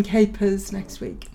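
slow, soft spooky voice; lightly spooky, drawn out. Pretend. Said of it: "Was that attempt at a spooky voice?".

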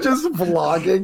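chuckled aside; laughing. Real, not acted. Coining the vlogger bit.

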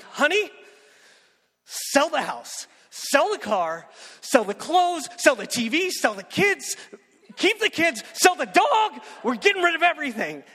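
high, loud, breathless rush of orders; bursting through the door, yelling every order at his wife; frantic excited shout. Retold or imitated.

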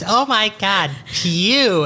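high, hammed-up revulsion; mock disgust. Co-host mimicking partner's smell reaction, mock disgust. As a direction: overdo the disgust at a stink. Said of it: "I go just like Dad".

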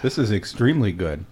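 talking through a bite; words round a mouthful; mouth full. Real, not acted. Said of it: "Don't talk with your mouth full".

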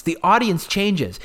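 ordinary talk, nothing marked

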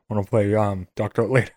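doctor talk voice. Retold or imitated. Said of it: "doctor talk voice".

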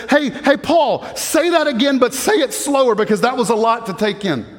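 lightly acted reader calling for a repeat; imagined reader interrupting. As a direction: pipe up to interrupt the teacher. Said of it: "raised their hand and said".

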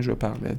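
"parle" mispronounced as par-LAY; mistaken final é. Shown as a demonstration. Teacher repeats the students' error, "parle" ending in é. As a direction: give "parle" a second syllable, é.

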